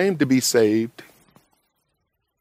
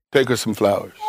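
gentle divine prompting; 5 semitones lower than usual. Retold or imitated. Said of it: "Father's trying to get you".

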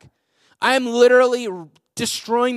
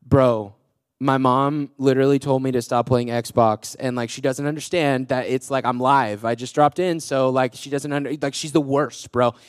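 put-on teen griping to a friend; 8 semitones lower than usual. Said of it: "acted like, uh, this was a phone call".

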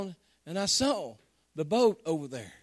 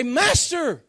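1 retold scream; 5 semitones higher, 5 dB louder than usual. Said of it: "they're screaming at the top".

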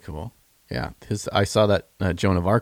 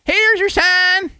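much higher, slow Southern comic voice; Jeff Foxworthy catchphrase; slower than usual. Retold or imitated. Finishing cohost's sentence, in a high slow Southern voice. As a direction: drag it out high like the comedian. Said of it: "He came up with the".

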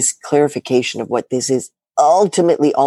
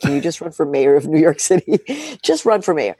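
exasperated husband. Retold or imitated. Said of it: "he's just like".

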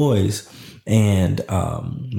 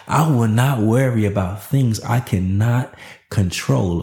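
affirmation; slower than usual. Shown as a demonstration. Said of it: "Oh, that's a word right there".

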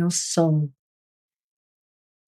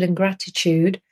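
burping. Real, not acted. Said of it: "excuse me, I'm burping".

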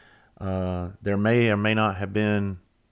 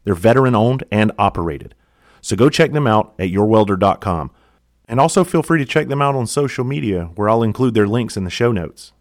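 upbeat, louder sponsor read; 7 dB louder than usual. Acted. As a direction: pitch it to the listeners, punchy and loud.

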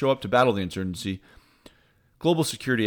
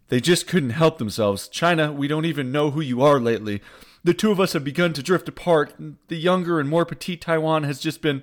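higher, dramatic breakup voice of a fickle partner; hammed-up lover letting someone down gently; mock jilting lover; 5 semitones higher, 3 dB louder than usual. State Department dumping Beijing, mock lover's breakup.

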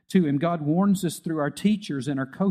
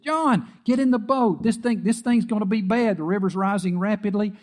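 boatman calling out; 4 semitones higher than usual. Retold or imitated. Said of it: "a guy came by ... and said".

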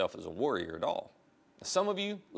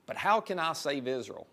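timid polite; 3 semitones higher than usual. Retold or imitated. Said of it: "There he goes again".

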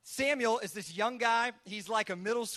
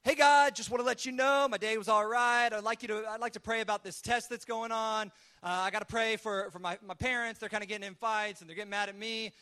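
casual phone message to God, opening loud; lightly acted offhand teen leaving a voicemail; voicemail prayer; 3 dB louder than usual. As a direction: rattle off a mock voicemail prayer. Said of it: "what I would call voicemail prayers".

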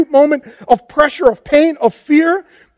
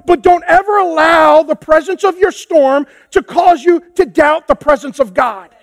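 full-voiced exhortation; forceful preaching; 3 semitones higher than usual. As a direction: preach it out to the room. Preacher repeats the key line.

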